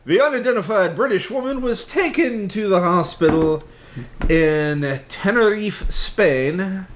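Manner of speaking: light French accent on the news read; a hint of French in the reading. Real, not acted. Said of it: "I said that with a French accent".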